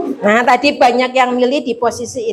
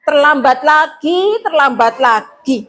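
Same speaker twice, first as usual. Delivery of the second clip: angry scolding; 3 semitones higher than usual. Shown as a demonstration. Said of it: "bilangnya kayak gini".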